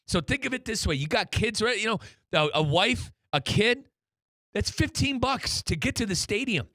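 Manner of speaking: upbeat radio ad read; sponsor read. Acted. Radio host pitching Tri-Rail to fans, upbeat ad read. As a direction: sell the train ride to the listeners.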